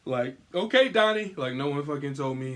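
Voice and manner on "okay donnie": high, loud teasing call of Donnie; mocking taunt. Mocking fans calling him Donnie, loud and high. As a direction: jeer at him like a kid on the playground. Mock Ninja Turtle taunt.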